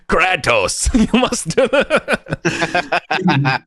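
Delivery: high-pitched, breaking into laughter; words dissolving into a long laugh. Real, not acted. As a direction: crack up while urging it on. GM cracks up at the idea.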